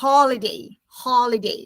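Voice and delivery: holiday with open aw first vowel; model pronunciation. Shown as a demonstration. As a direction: say holiday clearly for repeating, falling. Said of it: "Say the word with me".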